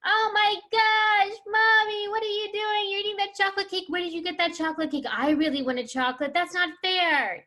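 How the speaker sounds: put-on high-pitched, loud whining kid tantrum; hammed-up child's protest, voice shooting way up. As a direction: imitate an indignant kid wailing at Mommy. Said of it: "when you raised your voice like that".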